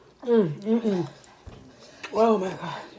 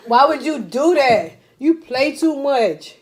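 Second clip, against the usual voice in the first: playful scolding; 4 semitones higher than usual. Real, not acted. Scolding friend for prank.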